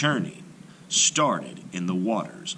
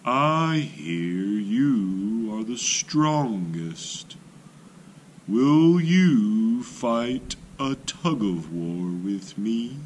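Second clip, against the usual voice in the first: sly challenge; 3 semitones higher, much slower than usual. A narrator's reading. Tortoise challenges elephant.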